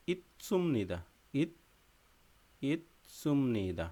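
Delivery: ইচ্ছুম নিদা, the ছ sound as tts, said slowly; Korean pronunciation. Shown as a demonstration. Teacher shows students how the Korean ending is pronounced, slow and careful. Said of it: "উচ্চারণ হবে কি?".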